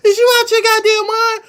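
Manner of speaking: high, loud disbelieving yell; incredulous shout. Real, not acted. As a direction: yell it like you can't believe it. Repeats the quote, shouting it.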